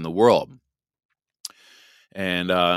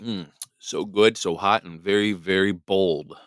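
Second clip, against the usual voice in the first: while sipping a drink; slower than usual. Real, not acted. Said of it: "take a sip of my hot coffee".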